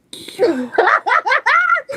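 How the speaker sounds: big high burst of laughter, loud. Real, not acted. Cracking up at the village joke, loud high laugh. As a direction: crack up loudly at the punchline.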